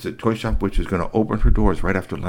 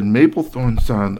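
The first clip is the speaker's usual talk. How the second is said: Japanese robot; 4 dB louder than usual. Acted. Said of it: "speaking Japanese to you".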